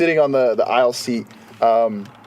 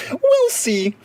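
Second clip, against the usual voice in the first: flippant; 11 semitones higher than usual. Retold or imitated. Flight attendant's flippant reply.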